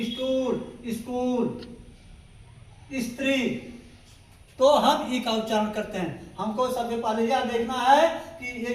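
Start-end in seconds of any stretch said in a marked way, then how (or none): 0.0-3.5 स्टूल said as istool with a short i in front; i before s. Shown as a demonstration. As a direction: add a short i before स्कूल. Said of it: "यहाँ हम ई का उच्चारण करते हैं".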